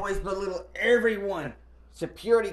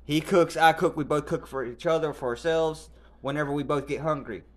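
loud retort; 5 dB louder than usual. Retold or imitated. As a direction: spell it out firmly, word by word. Retelling arguing back at the aunt.

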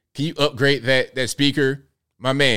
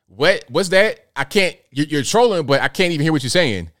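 mock straining to hear; 4 semitones higher than usual. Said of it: "I'm like".

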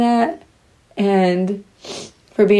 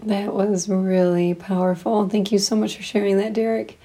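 shaky crying voice; 4 dB quieter than usual. Real, not acted. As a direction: voice shaking with held-back tears. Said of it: "I'm sorry if my voice is shaking".

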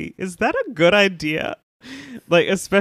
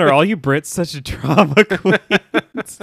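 slow, laughing mock Xander; giggling retold jab; laughing through the quote; 5 dB louder, slower than usual. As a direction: crack up on the punchline. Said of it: "Xander's like".

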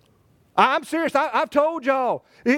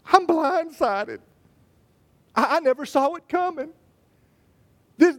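blindsided spouse. Acted. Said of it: "this is what one of them will say".

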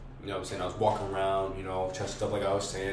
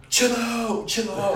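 high-pitched mock pleading; retold alarmed plea; 12 semitones higher, much slower than usual. Passenger telling his speeding friend to ease off, high retold plea. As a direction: re-enact a worried passenger, voice jumping up high. Passenger begging driver to slow down.

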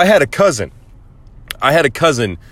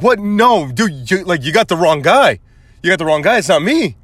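higher-pitched comic protest; retold stumbling self-defense; panicked denial; 5 semitones higher than usual. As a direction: insist you're innocent, flustered. Protests his innocence to sister, cousin.

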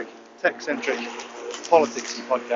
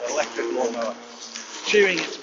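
rapturous; 2 semitones higher, 4 dB louder than usual. Acted. Lawnmower starts, rapturous exclamation.

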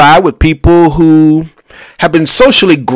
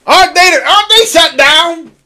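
surprised. Real, not acted. Reacting to a news detail.

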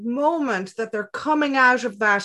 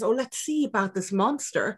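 playful; 4 dB quieter than usual. Shown as a demonstration. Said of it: "react in a playful way".

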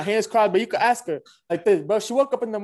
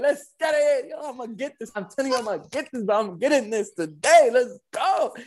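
higher-pitched, retold victory hype; happy hype-up; 5 semitones higher than usual. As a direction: replay pumping yourself up with glee. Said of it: "I was mad happy".

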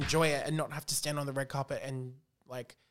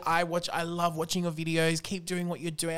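a hint of a bright high caller; 3 semitones higher than usual. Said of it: "And she's like".

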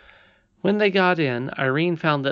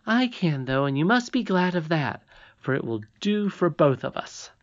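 put-on confident young princess; 5 semitones higher than usual. Irene reassures Curdie.

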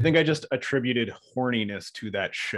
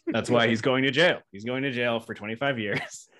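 laughing while talking; 3 dB louder than usual. Real, not acted. Laughing through joke.

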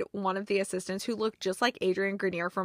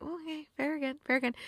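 mock grudging concession; 5 semitones higher, 7 dB quieter, faster than usual. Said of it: "And it's like".

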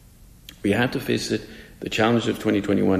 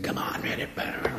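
hushed imitation of a cheering little ballplayer; mock cheering, under the breath with hardly any voice; enthusiastic kid; 7 dB quieter than usual. Little third baseman urging his team on, enthusiastic mock cheer. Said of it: "is completely enthusiastic".

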